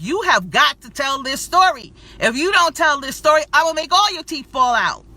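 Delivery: half-joking divine threat; mock God threat. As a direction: play God threatening her, hammed up. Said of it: "God didn't say it like that".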